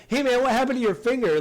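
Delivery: mock alarmed question; mock concerned bandmate. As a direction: play the shocked friend for laughs. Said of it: "not like".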